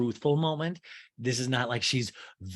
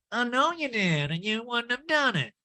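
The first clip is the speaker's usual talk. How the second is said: high nasal impression; pinched, put-on high voice; mock retort through a plugged nose; Erica Jane; 11 semitones higher than usual. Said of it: "that Erica Jane imitation".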